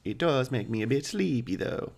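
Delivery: a hint of a smug, casual vampire. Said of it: "Is that correct for vampire, uh, voice?".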